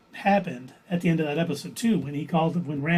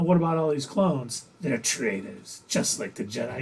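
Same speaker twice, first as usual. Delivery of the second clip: testing a suspect; 4 semitones lower, 4 dB quieter than usual. Retold or imitated. Clone sounding out Crosshair about the Empire, testing quietly. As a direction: lightly imitate someone baiting with a loaded statement. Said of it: "almost like he was testing him".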